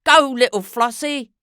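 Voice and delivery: loud gleeful cheer; cheering on the dog. A narrator's reading. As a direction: urge the dog on with delight. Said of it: "applauded Missus Trumbull".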